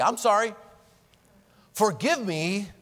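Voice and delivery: earnest apology asking forgiveness; mean it and ask; heartfelt plea, a step further; sincere sorry and forgive me. Shown as a demonstration. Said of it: "Whoa. That goes one step further".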